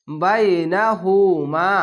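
slow "বাইনাহুমা" with final মা held; chanted "বাইনাহুমা", long ending; stretch and stop. Shown as a demonstration. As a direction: draw out the last মা, then stop. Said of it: "এক আলিফ টেনে থেমে যাবেন".

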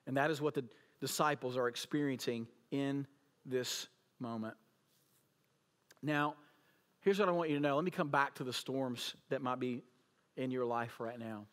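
ordinary talk

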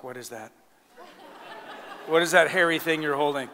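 a hint of a baffled puppy at the mirror; puzzled, lightly voiced dog; confused dog voice. Dog staring at itself in the mirror, puzzled. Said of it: "he looks at himself like".

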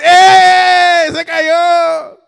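high, loud playful cheer at the fall; excited cheer. Retold or imitated. Dad cheering as his little daughter tumbles, high excited shout. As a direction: cheer like it's a game.

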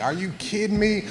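high, exasperated are-you-kidding-me squeak; disbelief. Retold or imitated. Told to rewax the car.

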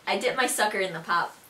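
slow Buffalonian demo sentence; Buffalo accent. Shown as a demonstration. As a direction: show off a Buffalo accent, taking it slowly. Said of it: "Now for some sentences for you guys".

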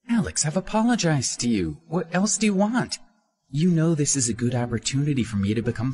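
pressure him, anxious and demanding; high-pitched urgent appeal; Minnie insisting. A narrator's reading.

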